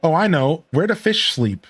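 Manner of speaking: high, lilting cartoon character voice; Goofy. Flattered character offers the player a joke, cartoon voice. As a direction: pitch it up, chatty and cartoonish. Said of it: "Goofy, you seem like a guy".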